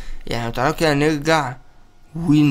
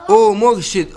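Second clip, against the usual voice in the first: excited shout; 6 semitones higher, 5 dB louder than usual. Real, not acted. Sees the boss appear.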